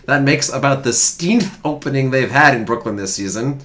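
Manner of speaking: put-on old-time sports writer, laughing through; old-timey newsreader. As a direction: read it like a 1910s paper. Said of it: "it's gonna come out throughout this whole reading".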